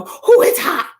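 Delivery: high, loud mock "ooh, it's hot"; hammed-up high mock of the woman; mocking her surprised squeal. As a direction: squeal it like a tourist caught out. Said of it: "had the nerve to go".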